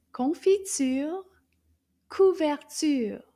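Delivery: Confiture rising, couverture falling, both slow; slow demo. Shown as a demonstration. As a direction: stretch each word for kids. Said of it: "Do you think they rhyme".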